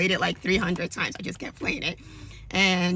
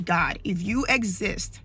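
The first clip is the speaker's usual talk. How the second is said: pleading prayer; slower than usual. Retold or imitated. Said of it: "And I just kept saying".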